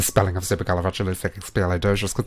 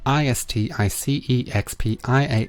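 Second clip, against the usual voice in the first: spelling it out. Shown as a demonstration. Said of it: "Are you ready for this?".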